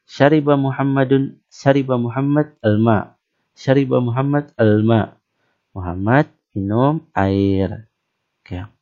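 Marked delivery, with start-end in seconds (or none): 0.0-5.2 proper Arab accent on the Arabic sentence; Arab style. Shown as a demonstration. Teacher repeats the Arabic sentence in true Arab accent. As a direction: say it like a real Arab. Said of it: "gaya orang Arab betul-betul gayanya".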